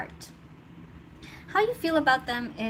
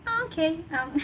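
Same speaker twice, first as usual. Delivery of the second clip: gentle reassurance; 5 semitones higher than usual. Retold or imitated. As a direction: reassure kindly, no blame. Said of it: "you're gently saying".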